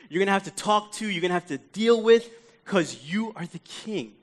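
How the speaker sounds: urgent, mounting worry; embedded worry. Acted. Dying thief reasoning with the coming king, worried. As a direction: reason it out anxiously, words piling up. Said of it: "a little bit of this embedded worry that's here".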